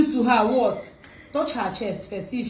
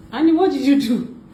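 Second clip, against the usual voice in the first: mildly raised, staged alarm; mock accusation; 4 dB louder than usual. Prankster blaming Annie for hurt neck, mock accusation. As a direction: pretend to demand an explanation.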